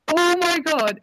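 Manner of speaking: high-pitched retold astonishment; mock shock. Cosplayer reacting to the musician's ear prank, mock shocked.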